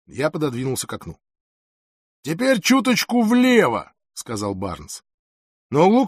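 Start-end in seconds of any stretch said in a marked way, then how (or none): 2.2-3.9 loud, high, drawn-out instruction; patronizing. A narrator's reading. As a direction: talk down to him, slow and self-assured. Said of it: "его голос звучал покровительственно и самонадеянно". (покровительственно и самонадеянно)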